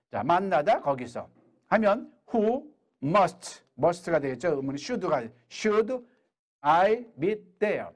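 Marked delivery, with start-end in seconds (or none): 5.5-7.9 very slow, word by word; slow demo. Shown as a demonstration. Teacher building the question slowly for students. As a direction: stretch the question out carefully. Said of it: "Who should I meet there".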